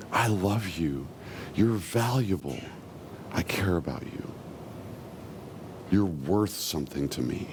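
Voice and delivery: softly earnest, low and unhurried; low, gentle words of affection, with space between them; tender divine reassurance. Acted. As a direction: speak as a loving father reassuring a child. Voices God's love to people.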